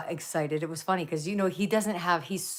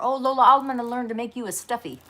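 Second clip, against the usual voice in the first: higher pet-talk voice, loud on her name; talking to the dog; 7 semitones higher, 6 dB louder than usual. Real, not acted. Owner promising her dog a stuffy, high pet-talk. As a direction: coo it to a thrilled puppy.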